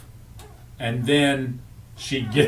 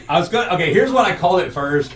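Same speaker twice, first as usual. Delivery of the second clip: laughing while talking, higher and louder; 5 semitones higher, 6 dB louder, faster than usual. Real, not acted. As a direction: giggle through the words. Laughing about show name.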